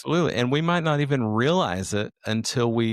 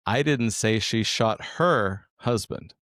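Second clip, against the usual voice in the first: "her" stressed, slow delivery; slower than usual. Shown as a demonstration. Demoing how stress shifts meaning, stress on "her". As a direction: lean on "her" in "I didn't say she shot her husband". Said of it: "we're gonna use the sentence".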